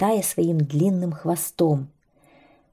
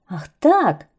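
indignant; 3 semitones higher, 3 dB louder than usual. Acted. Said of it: "возмутился Витя".

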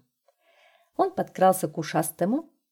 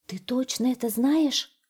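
hopeful question; 6 semitones higher than usual. A narrator's reading. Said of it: "с надеждой спросил туман".

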